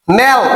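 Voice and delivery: suffix নেল as one isolated syllable; pronunciation model. Shown as a demonstration. Teacher answers how the suffix sounds, নেল pronounced alone. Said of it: "আর এটার উচ্চারণ হচ্ছে কি?".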